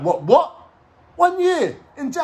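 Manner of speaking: high, loud shocked questions; outraged disbelief. Retold or imitated. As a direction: act out stunned protest at a sentence, voice shooting up. Hears his sentence in court.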